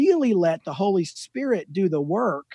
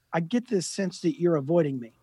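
softer, measured and unhurried; quiet, calm confrontation; 6 dB quieter than usual. Retold or imitated. Roofer to the man dodging him, quiet and calm. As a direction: confront gently, without raising your voice. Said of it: "He was calm".

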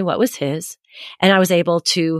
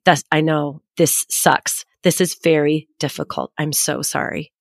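supportive; 3 semitones lower than usual. Retold or imitated. Mother commiserating with her dysregulated son, supportive. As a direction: soften and drop lower toward the apology. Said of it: "was in a f-, full supportive position".

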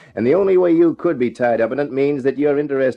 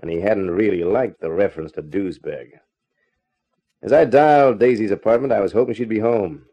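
detective narration. A narrator's reading. Detective telling listeners about the nightclub, in a voiceover style. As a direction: narrate the case like a tired gumshoe.

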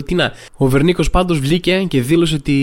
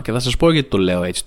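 ordinary talk

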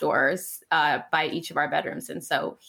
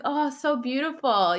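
higher, slow, wistful little voice; imitating a dreamy son; 6 semitones higher than usual. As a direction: sigh it like a five-year-old romantic. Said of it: "being like".

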